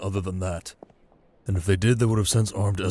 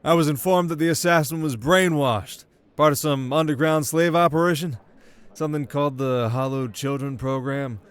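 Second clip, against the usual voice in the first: put-on higher, louder young royal; a commanding prince announcing a decision; prince's voice; 6 semitones higher, 3 dB louder than usual. Prince addressing his court, higher and commanding.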